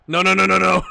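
loud, rising cries of no; dismayed shouting. Real, not acted. Fan shouting at his team as they concede. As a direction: groan it out as the goal goes in.

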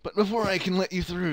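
big booming game-announcer hero. Acted. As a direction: announce it like a heroic guide. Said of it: "go ahead with the hero voice".

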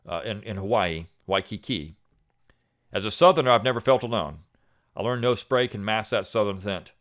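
steady, measured reading of a written piece; calm, deliberate essay narration; essay read aloud. Acted. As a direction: read it like a prepared essay for listeners. Reads essay aloud on podcast.

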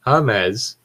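"James" said as Hah-mes, Spanish style. Shown as a demonstration. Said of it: "I forgot about Spanish".

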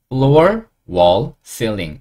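very slow, drawn out; slow model words. Shown as a demonstration. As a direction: stretch each word for learners. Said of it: "요런 식으로 발음 나겠네요". (아주 천천히 길게)

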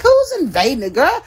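laughing disbelief. Retold or imitated. Friend panicking over the Discord, laughing retort. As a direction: chuckle through it like it's absurd. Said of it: "I'm like".

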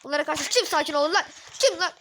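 hyped gamer yelling; riled-up shout. Real, not acted. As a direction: challenge anyone to stay calm. Defiant outburst at game.

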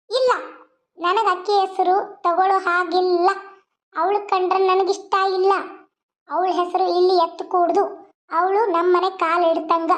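controlled anger, pitched a little low; stern, resentful warning; angry ultimatum. Acted. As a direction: lay down the law as a firm threat. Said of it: "ಯಾಕೆ ಇಷ್ಟು ಸಿಟ್ಟಾಗಿದೆ?".

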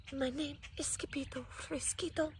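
soft, breathy frightened whisper. Acted. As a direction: whisper your name timidly. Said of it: "muy, muy soft voice".

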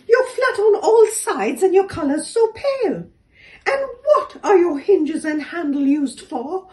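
mocking kangaroo. A narrator's reading. Kangaroo mocks the door.

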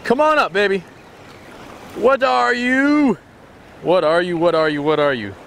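high, elated whooping at a bite; excited angler. Real, not acted. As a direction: coax the catch up, thrilled. Hooks fish, cheers it up.

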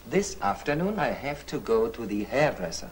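slow, clear teacher's demonstration; slow model sentence. Shown as a demonstration. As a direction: spell it out slowly for the pupil. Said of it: "Wenn du sagen wolltest". (Lehrer spricht der Schülerin den Satz langsam und deutlich vor)

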